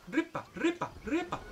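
high-pitched, repeated little call; animal call. Real, not acted. Player calls an animal over to feed it, high coaxing call.

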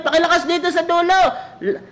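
high, laughing plea to speak up for the back; laughing request. Retold or imitated. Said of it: "Ang sabi".

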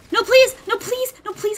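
pleading. Real, not acted. Begging the game to let him snipe.

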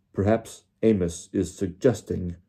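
slow, cold and cutting; measured, icy contempt; cold anger. Acted. Crouch rebuking Diggory, slow cold anger. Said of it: "cold anger in every syllable".

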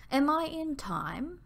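breathless. A narrator's reading. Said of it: "she inquired breathlessly".

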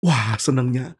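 gasp, then a drawn wow of delight; mildly acted joy with a gasp. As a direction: gasp of happy amazement. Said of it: "dia senang sekali".

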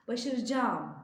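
Başaracağım said as başarıcam; spoken form. Shown as a demonstration. Teacher demonstrates the spoken form, başarıcaam. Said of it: "diye okuyoruz".

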